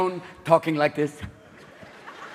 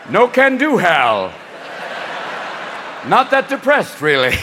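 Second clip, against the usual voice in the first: mock HAL computer; slower than usual. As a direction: play the car as a sulky computer. Car voiced as HAL.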